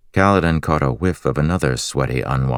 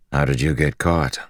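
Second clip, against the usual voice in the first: raspy slave voice. Acted. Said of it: "He had a raspy voice".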